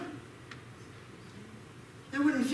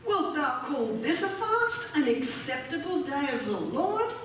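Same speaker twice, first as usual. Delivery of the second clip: indignant. Acted. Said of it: "God's indignant".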